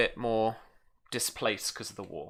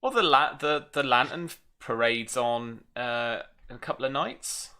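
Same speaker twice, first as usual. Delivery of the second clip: put-on Norfolk accent; 3 semitones higher, 4 dB louder than usual. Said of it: "My Norfolk accent".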